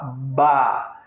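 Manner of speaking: ba with a full open A after the B; consonant plus vowel. Shown as a demonstration. Teacher adding A to make a syllable, full vowel. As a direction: open the B out into a clear ba. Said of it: "Aí eu boto A".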